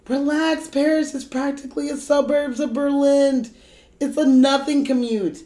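calm a panicking friend with mock confidence; acted friend waving off the panic; breezy reassurance. Acted scene, reassuring character.

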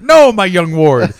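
lightly hammed-up hero mentor; superhero to sidekick. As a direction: grandly put the young ward in his place. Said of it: "And he's like".

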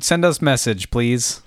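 stiff robot voice. Pretend. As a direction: speak like a simple robot. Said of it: "robot voice".

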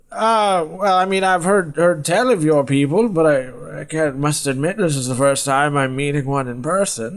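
high character voice, halting start; hesitant old man. Acted. Old man sizes up the stranger, hesitant high voice. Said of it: "he kinda looks you up and down".

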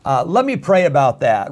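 mock hedging excuse; hammed-up reluctant reply; hesitant stall. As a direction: stall politely to dodge it. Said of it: "But if you don't".

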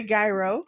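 "gyro" with a hard G, GUY-ro; Middle Eastern people's pronunciation. Retold or imitated. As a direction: say "gyro" as GUY-ro, rising at the end. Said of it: "we've heard Middle Eastern people say".

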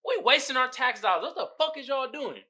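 high, laughing outraged rant; voicing angry taxpayer. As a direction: taxpayer ranting at wasted money.

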